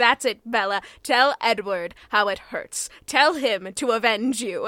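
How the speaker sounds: put-on, intense, eager, enthusiastic delivery. Speaker quotes a man talking to bella, imitating someone really into it. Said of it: "he's like so into it".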